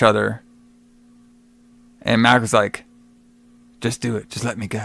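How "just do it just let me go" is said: quiet plea, retold. Voices Mac's resigned plea to Weeks.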